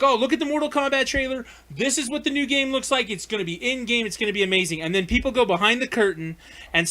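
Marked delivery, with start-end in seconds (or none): 0.0-4.8 a touch of excited trailer hype; hyped promo voice. Retold or imitated. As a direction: sell it like a promo. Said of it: "they'll be like".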